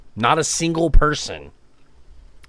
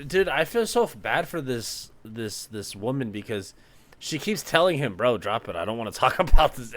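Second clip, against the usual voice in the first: sympathetic hush; 6 dB quieter than usual. Real, not acted. Pitying the woman.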